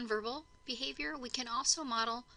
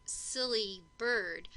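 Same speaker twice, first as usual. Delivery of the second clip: slow modeled phrase; 4 dB louder, much slower than usual. Shown as a demonstration.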